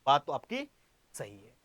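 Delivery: 1 quiet mock student. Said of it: "आपने कहा".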